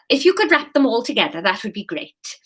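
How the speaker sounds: put-on Kate's line redone in the mixed accent; all-purpose foreign accent. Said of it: "one accent that encompasses most of the planet".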